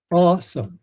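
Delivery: AWESOME split, high strong first syllable, light second; strong then light syllable. Shown as a demonstration. Coach breaking down syllables for learners, awesome strong then light. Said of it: "Strong syllable, then light syllable".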